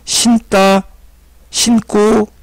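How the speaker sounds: 신다 and 신고 said as 신따, 신꼬; tensed pronunciation. Shown as a demonstration. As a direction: harden 신다 to 신따 and 신고 to 신꼬. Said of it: "여긴 된소리로 발음하는데".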